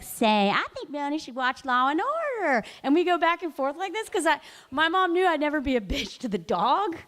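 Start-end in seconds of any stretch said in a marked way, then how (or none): 0.0-2.6 lightly mocking reply voiced through the poodle; teen talking through the dog. Teen answering mom through the dog, lightly mocking. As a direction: toss it back as if the dog were talking. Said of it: "And I'd be like".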